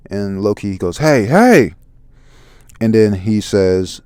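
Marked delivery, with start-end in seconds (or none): 1.0-1.8 loud, high "hey, hey"; raised-voice character shout; calling out. Acted. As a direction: call out sharply in protest. Manga character calling out in alarm.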